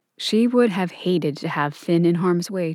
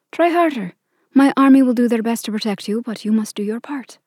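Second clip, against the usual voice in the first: higher, clipped royal command; stern queen; 3 semitones higher, 4 dB louder than usual. Acted. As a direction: cut her off like a stern queen. Queen rebukes Clover.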